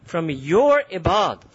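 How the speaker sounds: slow, drawn-out defiant Iblis voice; Iblis boasting. Acted. Iblis taunting Allah over his servants, slow and defiant. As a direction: stretch each word out like the devil taunting. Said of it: "So Iblis is saying".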